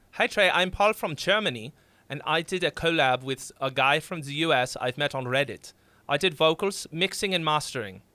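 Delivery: reading the fan's letter in a hammed-up German accent; a clumsy, lightly done German accent; bad German accent. Reading a German fan's message in a bad German accent. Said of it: "worst German accent I've ever done".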